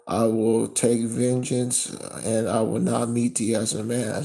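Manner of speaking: loud, slow proclaiming; scripture reading. Acted. Reads scripture loudly.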